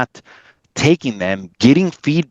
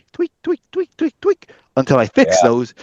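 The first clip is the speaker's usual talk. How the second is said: tweeting, little-birdlike voice. Describing tweaking the work until it was fixed, sounding like a little birdie. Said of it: "you sounded like a little birdie".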